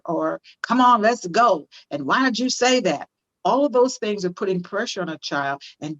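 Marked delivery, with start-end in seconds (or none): 0.6-3.1 pressuring parent. Acted. Acted parent pressuring a child.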